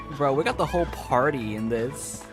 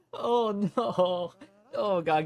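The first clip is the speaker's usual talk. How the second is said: laughing through pain and distress; 9 semitones higher than usual. Reacting to seeing him turn around, laughing the pain away. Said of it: "I'm laughing the pain away".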